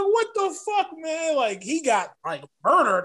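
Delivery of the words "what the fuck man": very high, whiny cry of disbelief; stunned disbelief. Retold or imitated. Fan watching his man get murdered, high mock wail. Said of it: "He was like".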